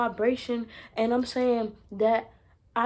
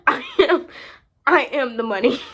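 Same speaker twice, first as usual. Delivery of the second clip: loud proclamation; 8 dB louder than usual. Real, not acted. Repeats it, steadier.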